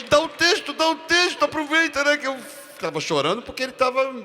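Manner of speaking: Tony urging the actor to act; excited urging. Retold or imitated. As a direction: rush him to deliver the line. Laughing excited retelling.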